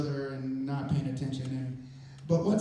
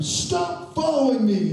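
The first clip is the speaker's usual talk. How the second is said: loud, high, slow shout of command; 8 semitones higher, 6 dB louder, slower than usual. Retold or imitated. Man shouts at the people climbing the steps, loud and high. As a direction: bark it at the strangers from above. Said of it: "shouts at them".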